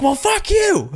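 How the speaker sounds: high-pitched playful curse, breaking into laughter; mock angry outburst. Snapping back at a negative comment, mock angry. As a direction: curse back, too amused to sound mean. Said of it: "you just get really angry".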